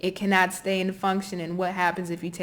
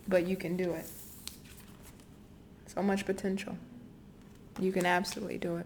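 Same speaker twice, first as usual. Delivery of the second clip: getting a little emotional, moved, much quieter; 8 dB quieter than usual. A card reader encourages a Gemini viewer, getting a little emotional. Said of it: "I'm getting a little emotional".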